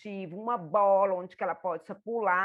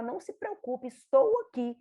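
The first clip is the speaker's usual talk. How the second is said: reassuring; 3 semitones higher, 3 dB louder than usual. Shown as a demonstration. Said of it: "e valida, e fala".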